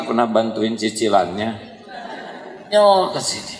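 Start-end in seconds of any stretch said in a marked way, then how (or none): 2.7-3.5 "Nyol ke sini" tossed off high and teasing through a laugh; a mocking gossip's sing-song taunt; playful high-pitched dig; cheeky high jab.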